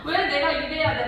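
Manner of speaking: drawn-out mock-angry complaint; retold exasperation. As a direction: re-enact rising resentment at being used. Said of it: "이러면서 막 이게 막 화가 막 올라오는 거예요".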